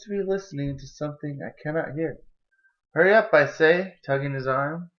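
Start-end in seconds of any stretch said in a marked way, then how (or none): 2.9-4.0 impatient urging. Acted. Julie hurries her brother along.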